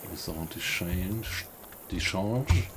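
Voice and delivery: halting French, said slowly and unsure; broken French. Real, not acted. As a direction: read Maison de change haltingly in bad French. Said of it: "Sorry for my bad French".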